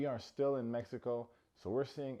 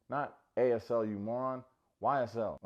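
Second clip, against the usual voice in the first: mock scolding; 5 dB louder than usual. Monica correcting him, voiced.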